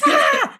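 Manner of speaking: short high-pitched yelp of a scream; retold scream. Woman retelling her scream alone in the car, mock scream. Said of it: "I just screamed".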